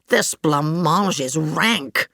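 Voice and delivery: slow, low, glum complaint; lightly voiced sulky diner; dejected Whoopi. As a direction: drag it out, fed up. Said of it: "she said".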